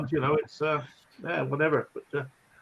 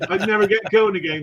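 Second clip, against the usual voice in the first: laughing; 3 semitones higher, 4 dB louder than usual. Real, not acted. Laughing while speaking.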